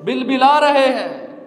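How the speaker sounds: earnest sermon delivery in measured phrases; preaching. Real, not acted. Preacher warning believers they will answer to Allah, earnest preaching. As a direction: preach it phrase by phrase, pausing between points.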